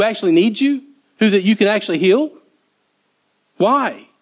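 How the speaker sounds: high-pitched, acted disbelief; incredulous protest. Confused disciples challenging Jesus' late decision, incredulous. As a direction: question him in baffled exasperation.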